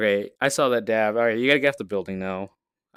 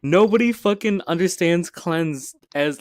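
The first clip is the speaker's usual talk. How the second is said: "Nobody" punched louder and slower; stress on nobody; 5 semitones higher, 5 dB louder than usual. Real, not acted. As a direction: hit "Nobody" hard and draw it out. Ranting about the item.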